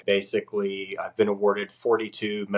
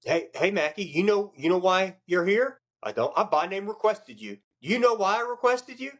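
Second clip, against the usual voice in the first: chief's voice; 11 semitones higher than usual. Retold or imitated. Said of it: "he's like".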